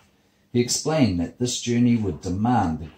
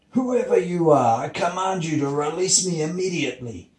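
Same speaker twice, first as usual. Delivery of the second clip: high, straining voice of command; high-pitched acted outrage; pained sun; 9 semitones higher, 3 dB louder than usual. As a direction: command as if in pain, starting loud and easing off. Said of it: "The sun screamed in pain".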